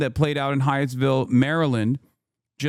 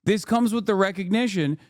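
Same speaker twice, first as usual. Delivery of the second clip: higher-pitched, exasperated rant; real indignation; 6 semitones higher than usual. Real, not acted. Streamer berating an agent who pointed a gun at onlookers, indignant. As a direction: argue it in raised-pitch outrage.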